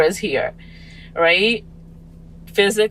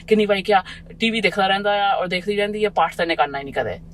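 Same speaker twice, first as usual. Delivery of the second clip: quick mock scolding, not raised; barging-in parent; 3 semitones higher, faster than usual. Parent barging in on a child watching cartoons, quick mock scold. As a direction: rattle it off like a nagging parent. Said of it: "barging in and is like".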